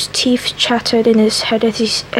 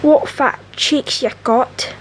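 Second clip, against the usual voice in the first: rough country accent, slow; convict accent; 2 semitones higher, slower than usual. Shown as a demonstration. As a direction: growl it like a rough old convict. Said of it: "proper said accent".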